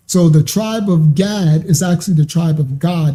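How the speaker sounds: "Gad" then "God", the second with an ah sound. Shown as a demonstration. Teacher correcting how the tribe name is said. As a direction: turn "Gad" into "God", ah vowel. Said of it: "That's how it's pronounced".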